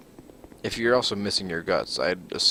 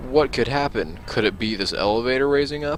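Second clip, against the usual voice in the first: mock wondering; 4 semitones higher than usual. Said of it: "And then be like".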